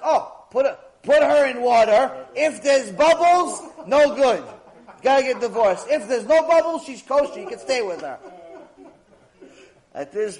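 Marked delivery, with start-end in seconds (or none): 0.0-8.2 gleeful eureka. Acted. Fool gleefully applies third answer.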